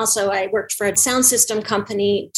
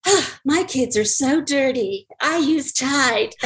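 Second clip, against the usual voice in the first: slowed-down hammed-up ad read; selling detergent as a weary mom; mock commercial mom; 2 semitones higher, slower than usual. In her home shows, a mock Tide commercial mom. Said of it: "do a commercial break".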